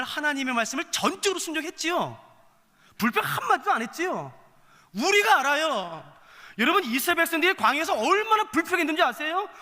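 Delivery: high, loud pulpit challenge; impassioned preaching. Real, not acted. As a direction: hammer rhetorical questions at the congregation, high and loud. Preaches at full force.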